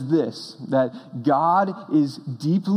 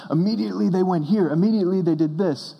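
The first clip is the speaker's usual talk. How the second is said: higher-pitched, eager run of events; excited storyteller; 4 semitones higher than usual. Shown as a demonstration. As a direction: build the excitement from one event to the next. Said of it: "And it's exciting".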